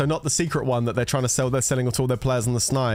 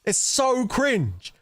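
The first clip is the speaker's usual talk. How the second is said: drawn-out disdain; 7 semitones higher, much slower than usual. Real, not acted. Mocking the advert, drawn-out words.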